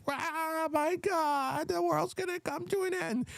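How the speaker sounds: high, shrill wailing mock despair; mocking shrieking leftist. Mocking the reeing chicks when he was voted in, high wail. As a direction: wail it way up high like the world is ending. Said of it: "the reeing chicks".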